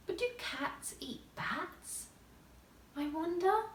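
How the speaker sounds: soft and slow, half asleep; drowsy musing. A narrator's reading. Alice musing sleepily about her cat, soft and slow. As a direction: let the question drift off.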